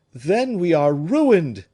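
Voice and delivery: high, loud, slow wail of ruin; despairing cry. A narrator's reading. Madame Fouquet cries to the room in despairing alarm. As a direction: let the ruin sink in aloud. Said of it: "cried Madame Fouquet".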